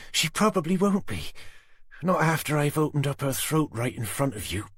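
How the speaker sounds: high, cold threat; Susan's menacing voice. A narrator's reading. Susan threatening Tanner with the knife at Jenny's throat. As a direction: savour the threat.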